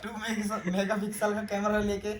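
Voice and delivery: loud, high, cursing rant; mock-angry rant. Real, not acted. Friend fed up with the morning vlogging, a loud, high, cursing rant. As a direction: rant at him, half laughing.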